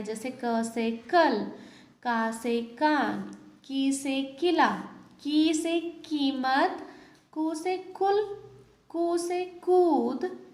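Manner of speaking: slow, clear example words; slow word drill. Shown as a demonstration. Teacher drills example words for the class, slowly. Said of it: "उनसे हमने शब्द बनाए".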